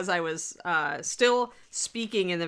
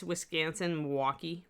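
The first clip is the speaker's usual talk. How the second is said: Wisconsin accent. Shown as a demonstration. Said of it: "I go into my Wisconsin accent".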